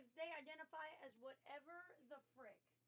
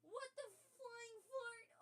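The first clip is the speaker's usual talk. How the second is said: exasperated exclaim; 10 semitones higher, 4 dB louder, slower than usual. Real, not acted. Frustrated at audio problem.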